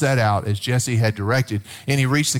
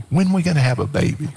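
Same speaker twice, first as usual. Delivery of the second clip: teasing wife; 3 semitones higher, faster than usual. Retold or imitated. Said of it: "She'd kind of say that to me".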